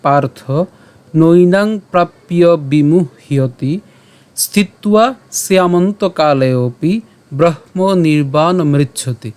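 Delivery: slow, measured Sanskrit shloka reading; verse recitation. Shown as a demonstration. Teacher presents today's shloka to learners, slow recitation. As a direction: recite each word slowly and distinctly.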